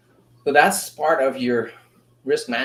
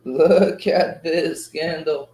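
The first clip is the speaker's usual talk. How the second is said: awed; much slower than usual. Real, not acted. Slow awed repeat.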